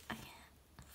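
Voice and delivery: breathless whispered oh my gosh; hushed, starstruck whisper; awed whisper. Real, not acted. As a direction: whisper it in disbelief. Whispering over the photos.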